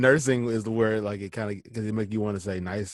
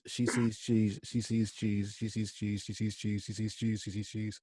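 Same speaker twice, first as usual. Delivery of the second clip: each take softer until barely audible; fading quieter; 2 semitones lower, 9 dB quieter than usual. Shown as a demonstration. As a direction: let it fade out with every repeat. Tongue twister repeated, fading.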